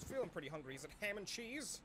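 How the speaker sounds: hushed whisper, no voice. Acted. Sneaking a look at the lunch, whispering. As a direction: breathe the words secretly.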